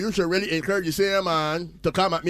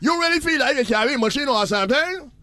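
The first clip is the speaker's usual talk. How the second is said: indignant rant; 4 semitones higher than usual. Acted. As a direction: scold the nosy clerk. Rant at nosy cashier.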